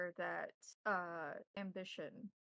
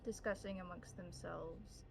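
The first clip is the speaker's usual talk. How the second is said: scene-setting narration. Acted. Game master opening the scene for players, hushed narration. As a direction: draw the players into the library.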